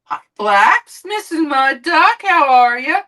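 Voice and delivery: high, loud sing-song hello to the cat; pet greeting. Real, not acted.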